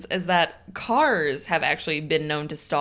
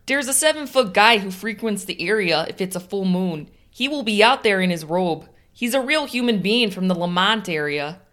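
put-on a louder, broad Chicago accent; imitating a Chicago ghost hunter in a Chicago accent; 5 dB louder than usual. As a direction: play Eddie with a strong Chicago accent. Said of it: "she has a fantastic Chicago accent".

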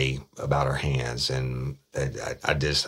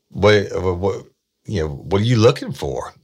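pressing; 6 semitones higher, 7 dB louder than usual. Retold or imitated. Detective presses suspect.

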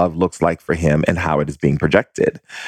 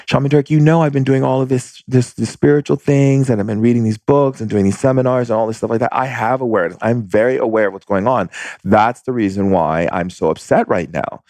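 a touch higher, insistent wife's voice; lightly voiced upset wife; 4 semitones higher than usual. Wife defending her spiritual awareness to the shaman, higher insistent voice. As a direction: play the wife pleading her case, pitched up. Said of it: "And she said to me".

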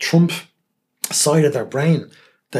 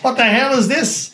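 higher, slow, drawn-out indignant disbelief; mock outraged surprise; 11 semitones higher, 4 dB louder, slower than usual. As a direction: play his sudden outrage big and slow. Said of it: "And then he goes".

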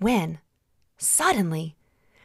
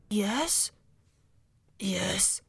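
put-on quiet, wary old man at the door; a soft old voice answering a knock; old raspy voice; 6 dB quieter than usual. Old man answers the knock, softly querying. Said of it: "An old, raspy voice answered back".

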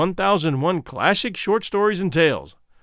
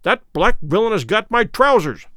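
roared; 5 semitones higher than usual. Acted. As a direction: yell it as the trousers are carried off. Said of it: "roared Good".

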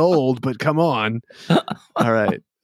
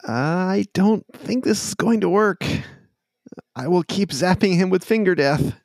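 Jesus voice; 8 semitones higher than usual. Acted. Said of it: "Jesus looks at you and says".

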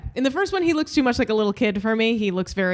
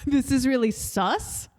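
laughing; 4 semitones higher, slower than usual. Real, not acted. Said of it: "laughing echo of the phrase".

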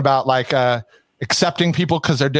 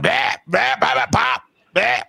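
higher, cartoonish East Coast babble; bad East Coast accent; 10 semitones higher, slower than usual. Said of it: "I can't do accents either".

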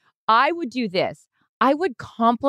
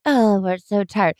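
whiny; slower than usual. Retold or imitated. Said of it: "I heard us be like".

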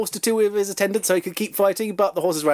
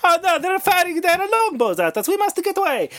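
higher, comic alarmed soldier voice; panicking Italian soldiers; 13 semitones higher than usual. Retold or imitated. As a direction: ham up a fleeing soldier in a panic. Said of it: "and the Italians went".

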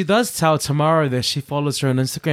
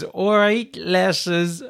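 lightly put-on Geordie, pitched up; attempted Newcastle accent; 5 semitones higher, much slower than usual. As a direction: have a shaky go at Newcastle accent. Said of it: "gonna try the accent".

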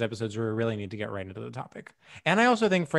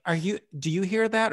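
higher-pitched passive-aggressive mock query; feigned innocent question, pitched up; 6 semitones higher than usual. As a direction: imitate someone pointedly hinting at noise. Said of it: "passive aggressive".

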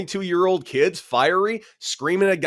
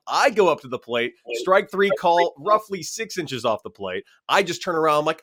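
usual speaking voice

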